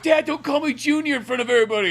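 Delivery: high, loud whiny protest; whiny Fox. Pretend. Fox embarrassed by his dad, high loud whine.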